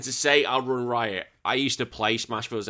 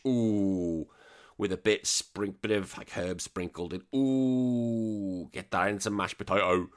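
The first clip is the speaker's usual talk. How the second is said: mock relish; slower than usual. Hams up savouring sausage.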